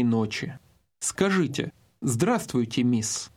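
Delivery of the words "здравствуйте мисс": ordinary talk, nothing marked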